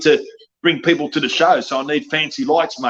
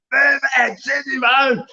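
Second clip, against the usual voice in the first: high shouted fan chant, much higher; crowd shout imitation; 9 semitones higher, much slower than usual. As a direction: yell it like a cheering fan. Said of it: "They really do".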